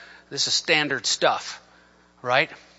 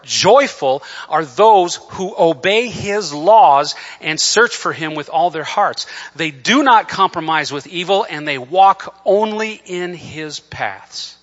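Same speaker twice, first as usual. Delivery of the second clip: louder, emphatic preacher's reading; forceful scripture reading; 4 semitones higher, 8 dB louder, slower than usual. Acted. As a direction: proclaim the verse, leaning on key words.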